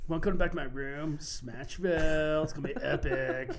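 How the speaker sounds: cheesy dude-bro pickup line; frat bro. Retold or imitated. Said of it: "like a frat boy going through puberty".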